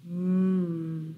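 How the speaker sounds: drawn-out closed-mouth moan; low moan. A narrator's reading. Bear hears a noise in the dark, low moaning. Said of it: "Bear heard a low moaning noise".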